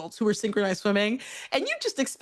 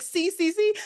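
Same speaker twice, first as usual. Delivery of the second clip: insistent teacher; 8 semitones higher than usual. Retold or imitated.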